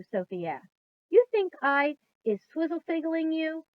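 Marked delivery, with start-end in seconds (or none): 1.1-3.6 sharp retort. A narrator's reading. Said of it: "said the B F G sharply".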